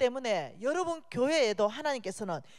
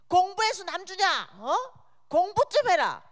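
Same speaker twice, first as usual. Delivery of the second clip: higher, louder mock scolding of a lazy child; mock angry mother's yell; 6 semitones higher, 4 dB louder than usual. Friend's mother yelling at her child to study, mock angry yell. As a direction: bellow it like a nagging mom cursing her kid. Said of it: "막 욕까지 섞어 가면서".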